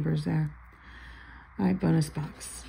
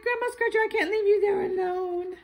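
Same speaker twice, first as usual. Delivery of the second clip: cutesy ticket voice; 13 semitones higher than usual. Retold or imitated. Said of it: "It's like".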